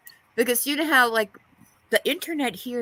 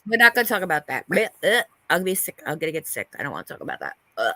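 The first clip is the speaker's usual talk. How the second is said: disgusted; 6 semitones lower, much faster than usual. Real, not acted. Disgusted by pimple popping talk.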